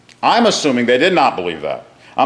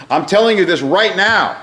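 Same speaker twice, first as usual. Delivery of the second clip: RIGHT NOW said with firm emphasis, pitched up; stress on RIGHT NOW; 6 semitones higher than usual. Acted. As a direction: drive home "right now" as an urgent promise. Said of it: "adds emphasis to either one".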